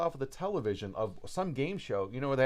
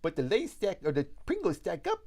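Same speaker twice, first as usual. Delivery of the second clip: slightly wrong copied voice; 4 semitones higher than usual. Retold or imitated. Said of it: "And he's like".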